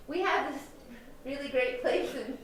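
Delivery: breaking into laughter mid-quote; can't keep a straight face; giggling while quoting; laughing through it. Retold or imitated. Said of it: "I can't even say it with a straight face".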